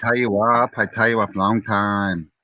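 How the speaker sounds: slow, lightly put-on Thai English; mock Thai accent. Joking with friends, a slow, lightly mocking Thai accent. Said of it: "That's Thailand".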